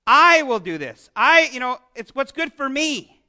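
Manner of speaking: mocking a know-it-all who decides for himself; self-assured quote. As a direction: imitate a smug, self-ruled person. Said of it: "people who say".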